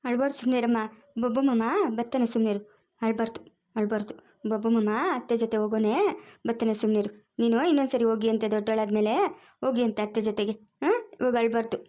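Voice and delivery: low, reassuring hush; comforting a little one; soothing. Acted. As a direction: gently talk a crying child down. Soothing a crying child.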